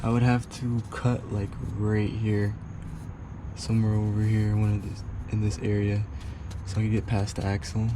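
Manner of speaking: talking while lying under the car. Real, not acted. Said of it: "I'm under the car right now".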